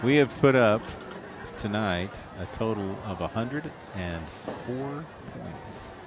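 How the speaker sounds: slow, halting score tally; careful, slow. Real, not acted. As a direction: say the total slowly, pausing between phrases. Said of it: "I have to say it slowly".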